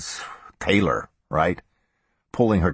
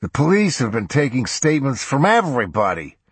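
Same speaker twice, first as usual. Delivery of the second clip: put-on higher, slurred drunk partner; 7 semitones higher than usual. A narrator's reading. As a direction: talk like you've had a few. Drunk Hewson on the phone.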